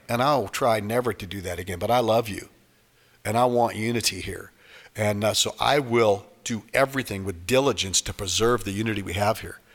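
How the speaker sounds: sincere apology. Acted. Member apologizing to someone they hurt in church, sincere and tender. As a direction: make amends tenderly, keeping it low.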